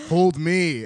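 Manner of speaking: mock needy plea. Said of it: "You're doing a lot of voices".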